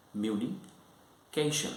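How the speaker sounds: "Communication" broken into slow separate chunks; syllable by syllable. Shown as a demonstration. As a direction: say "Communication" slowly, pausing between syllable groups. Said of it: "this word has got three syllables".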